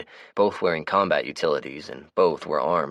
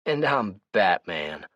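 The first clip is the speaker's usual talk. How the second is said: sarcastic; 4 semitones higher, much slower than usual. Acted. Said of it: "drawled out sarcastically".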